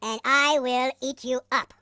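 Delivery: very slow, deliberate warning; slow threat. Acted. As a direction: space out every word as a warning.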